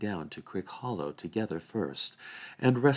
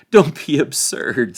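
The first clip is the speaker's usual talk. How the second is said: high, loud, lofty rebuff; dismissive Frodo; 6 semitones higher, 10 dB louder, slower than usual. A narrator's reading. Frodo refusing the sheriffs' orders, dismissive and loud. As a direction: brush the officials off grandly.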